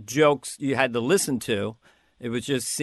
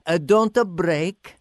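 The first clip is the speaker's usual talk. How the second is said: put-on a light Italian accent, a whispered warning; a touch of Italian accent, warning a castmate; slower than usual. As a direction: lean in and hush it in a mild Italian accent. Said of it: "I said in the Italian accent".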